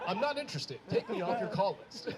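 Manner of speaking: put-on assured white-guy phone voice; authoritative white guy. Kid fending off insurance callers, authoritative white-guy impression. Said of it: "sounded more authoritative as a white guy".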